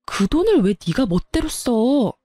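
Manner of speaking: angry yell. Acted. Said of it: "꽥 소리를 질렀어요".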